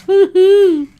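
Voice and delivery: a sudden high, loud cheer of delight; excited whoop. Real, not acted. Vlogger cheering at food pictures to viewers, excited whoop. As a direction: let it burst out like a happy yell.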